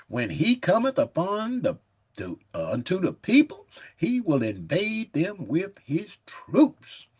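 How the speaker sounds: slow, weighty King James reading; measured, booming Bible reading; solemn scripture reading. Acted. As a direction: read it like a preacher at the pulpit. Reads scripture aloud.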